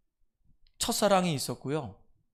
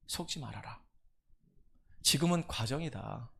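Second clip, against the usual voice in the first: soft, low, calm comfort; gentle reassurance; 4 semitones lower, 6 dB quieter than usual. Retold or imitated. Pastor comforting a heartbroken student, soft and low. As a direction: soothe a grieving girl quietly.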